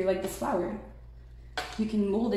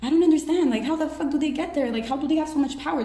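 high, loud, incredulous voice of the others; baffled onlookers; 7 semitones higher, 5 dB louder than usual. Retold or imitated. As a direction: play the stunned crowd who can't believe it. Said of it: "everybody's curious about".

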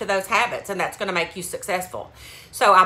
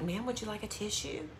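softly whispered offer; imitating a whispering clerk; 14 dB quieter than usual. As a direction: hush it like a discreet shop clerk. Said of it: "She kinda whispered it".

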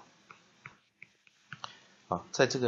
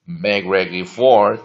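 slow, loud read-aloud for students; slow model reading; 3 semitones lower, 12 dB louder, slower than usual. Shown as a demonstration. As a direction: read it slowly for the class to copy. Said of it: "let's repeat the pronunciation". (慢速示范朗读)

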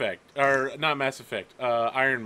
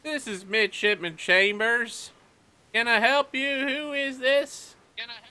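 higher voice, slow and officious on the radio; young midshipman on radio; 5 semitones higher than usual. Acted. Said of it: "He's like".

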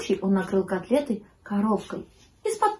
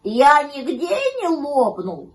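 slow, loud, raised puppy voice; drawn-out worried pup; 5 semitones higher, 5 dB louder, slower than usual. A narrator's reading. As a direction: ask anxiously, drawing the words out. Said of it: "попросил щенок".

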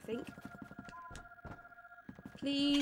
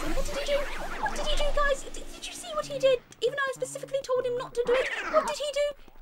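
mock indignation; 9 semitones higher, faster than usual. Mock complaining to viewers about ghost.

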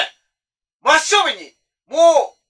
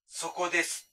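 ghostly voice; 3 semitones lower, 13 dB quieter, slower than usual. Retold or imitated. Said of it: "後ろから声聞こえたんですよ".

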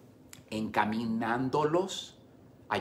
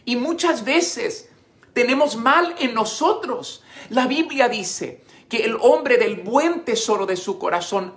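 loud, high, impassioned sermon; preaching at full force; 10 semitones higher, 8 dB louder than usual. Acted. Pastor preaching to couples about blame, at full force. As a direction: drive every line home to the congregation.

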